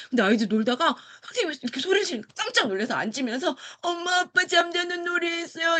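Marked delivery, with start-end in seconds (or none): 3.8-5.8 put-on high, startled child answering; little boy's voice. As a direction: sound like a scared five-year-old. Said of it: "이렇게 남자애가 이야기했고요". (깜짝 놀란 아이처럼 높은 목소리로)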